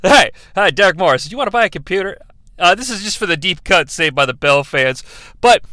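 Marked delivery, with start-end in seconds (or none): 0.0-2.2 a hint of a slick salesman pitching Derek Morris; lightly voiced pushy salesman.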